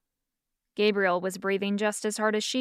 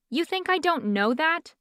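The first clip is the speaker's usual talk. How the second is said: indignant outburst pitched higher; spluttering; 7 semitones higher than usual. Acted. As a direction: sputter back at him, offended. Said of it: "Fiona spluttered".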